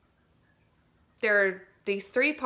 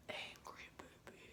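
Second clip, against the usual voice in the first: put-on whispered angry baby; tiny whispered angry baby; small angry baby; 26 dB quieter than usual. Shown as a demonstration. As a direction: shrink it to a whisper. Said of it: "super small like an angry baby".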